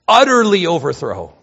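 loud stress on Utterly; emphatic. Shown as a demonstration. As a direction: UTTERLY hit hard and loud. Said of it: "Emphasis just screams out. It's emphatic".

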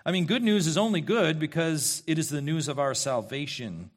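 normal talking voice

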